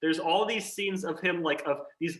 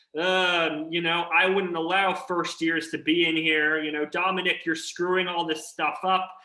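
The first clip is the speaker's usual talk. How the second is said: usual speaking voice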